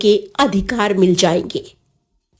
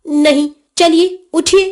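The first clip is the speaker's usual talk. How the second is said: higher-pitched, firm command; bossy child hurrying mother along; insistent order; 5 semitones higher than usual. Acted. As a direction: brook no refusal. Boy insists mother get up.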